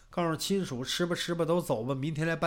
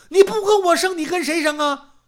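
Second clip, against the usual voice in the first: loud retort; 10 semitones higher, 8 dB louder than usual. Acted. Husband retorts loudly.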